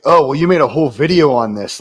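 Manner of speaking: loud mock commenter. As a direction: parrot them loudly. Quoting commenters.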